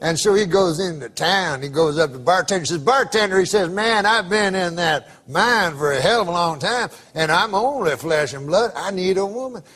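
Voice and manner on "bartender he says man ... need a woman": grizzled prospector, low and drawling; old prospector. Retold or imitated. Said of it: "I can tell by the accent".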